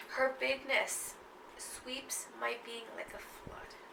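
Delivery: slow, hushed recital; poem reading. Acted. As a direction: draw the line out softly. Reads the poem line.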